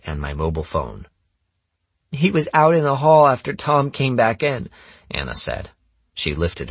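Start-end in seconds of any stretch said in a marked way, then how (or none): 2.1-4.7 put-on high, loud girl's accusation; accusing girl. Anna accuses the narrator before the group, accusing. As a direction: pitch it high and press the accusation.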